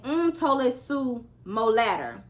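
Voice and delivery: words mumbled, mouth full of wood; mumbled through mandibles. A narrator's reading. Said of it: "which Alex understood as".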